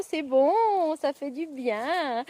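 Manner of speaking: mock massage chair. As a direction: voice shaken by a pretend massage. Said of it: "on va mettre en route notre fauteuil de massage".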